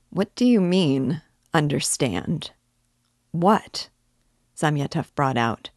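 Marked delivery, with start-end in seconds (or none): 0.1-3.9 a touch of alarm, rising; almost alarmed. Acted. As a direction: Zamyatov half alarmed by Raskolnikov's hint. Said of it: "almost alarmed".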